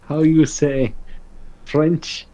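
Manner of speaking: put-on halting French-accent parody; mock French accent. Player teases game master about the French accent. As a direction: grope for words in a fake French accent. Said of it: "French accent".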